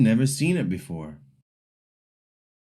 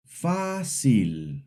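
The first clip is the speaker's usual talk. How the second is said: FÁcil, first syllable strong; fácil modelled for repeating, weight on fá; practice first-syllable stress. Shown as a demonstration. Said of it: "Repeat after me".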